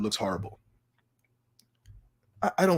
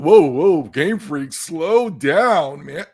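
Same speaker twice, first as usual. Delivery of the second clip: mock plea; 3 semitones higher, 8 dB louder, much slower than usual. Mock pleading at Game Freak.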